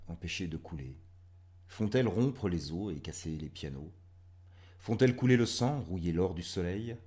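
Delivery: measured reading with strong line openings; poem recitation. Acted. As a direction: press each poetic question, then ease off.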